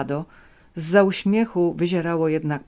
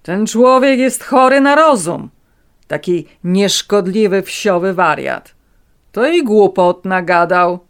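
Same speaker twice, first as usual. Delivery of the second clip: contemptuous; 4 semitones higher, 11 dB louder than usual. A narrator's reading. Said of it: "prychnął pogardliwie".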